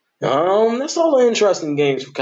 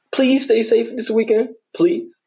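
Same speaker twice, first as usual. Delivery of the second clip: earnest plea; 12 semitones higher than usual. Real, not acted. Pleading storm safety.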